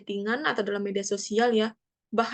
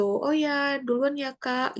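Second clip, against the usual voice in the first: higher-pitched casual goodbye; pamit akrab; 4 semitones higher, slower than usual. Acted. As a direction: act out a friendly parting in passing. Contoh pamit spontan di jalan. (pamitan santai bernada tinggi)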